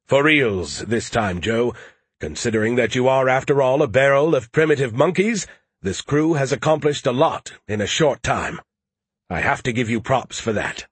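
lightly voiced haughty, emphatic know-it-all; snarky know-it-all. Skippy interjects about Joe's grammar, lightly voiced snark.

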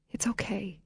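whispered reassurance; soft whisper. A narrator's reading. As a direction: gently hush her with it. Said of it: "she said again".

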